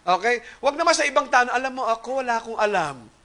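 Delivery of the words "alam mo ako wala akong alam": softly acted mock humility; quiet show of fake modesty; false humility. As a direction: put on a meek, self-effacing act. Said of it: "wag pong false humility".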